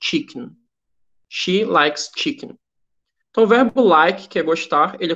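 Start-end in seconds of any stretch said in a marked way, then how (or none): 0.0-0.6 slow, clear English; slow, careful teacher read; slow model sentence. Shown as a demonstration. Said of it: "o conjugado fica". 1.3-2.6 slow, clear English, a little quicker; slow teacher read; slow model sentence. Shown as a demonstration. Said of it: "o conjugado fica".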